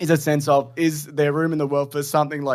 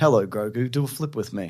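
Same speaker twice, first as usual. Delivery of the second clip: voice that sounds artificially generated; 6 semitones lower, 3 dB quieter than usual. Mocking an AI-generated scene by imitating AI Luke Skywalker. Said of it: "the A I Luke Skywalker? ... He's like".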